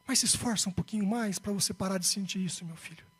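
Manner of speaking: softening, fading fatherly appeal; tender plea. Retold or imitated. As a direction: ease down low and gentle for your child.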